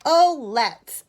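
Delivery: high, loud eager yes; eager agreement. A narrator's reading. Edith agreeing eagerly to little bear. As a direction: jump at the idea. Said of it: "agreed Edith".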